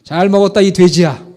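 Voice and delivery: booming mock insult; loud retold insult. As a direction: throw the insult out loudly. Retort repeated for effect.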